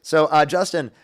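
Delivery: taunting the heckler in his bit voice; put-on voice. Streamer taunting angry caller, lightly put-on voice. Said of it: "I'm done with the voice".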